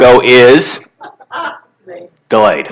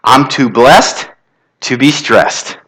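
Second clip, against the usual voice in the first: slow, deliberate affirmation; a slow mantra to the crowd; slower than usual. Shown as a demonstration. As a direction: savor each word, slowly. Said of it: "This is my affirmation".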